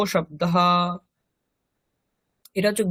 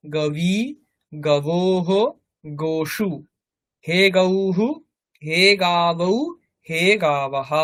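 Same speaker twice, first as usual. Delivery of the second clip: slow, measured chanting of noun forms; rote recitation; slower than usual. Shown as a demonstration. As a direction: recite each form evenly like a class drill. Reciting go-shabda declension. (ধীরে ধীরে শব্দরূপ আবৃত্তি)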